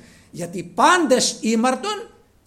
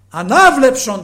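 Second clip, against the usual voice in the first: slow, loud, higher command; the Lord to the blind man: slow, loud, solemn command; 6 semitones higher, 15 dB louder, slower than usual. Acted. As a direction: proclaim the healing word with authority, drawn out. Repeats the Lord's command.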